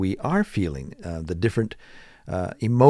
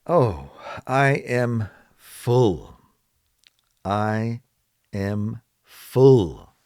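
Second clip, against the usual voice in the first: slow model answer; much slower than usual. Shown as a demonstration. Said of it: "Someone asks".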